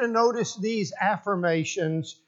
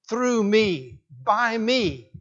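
"through" and "by" each punched higher; emphatic repetition; 4 semitones higher, 3 dB louder, much slower than usual. Shown as a demonstration. Preacher giving both senses of the word, emphatic repetition. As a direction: hit "through", then "by", as separate beats.

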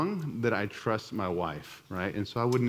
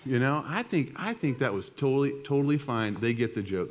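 mock innocent; 5 semitones higher than usual. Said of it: "I sat there and I was like".

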